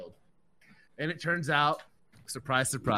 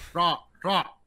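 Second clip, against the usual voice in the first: high, louder mock shout of stop; retold plea; 8 semitones higher, 5 dB louder than usual. Telling friends how he begged the dentist to stop, a high mock yell. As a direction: beg him to stop mid-drill. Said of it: "I was like".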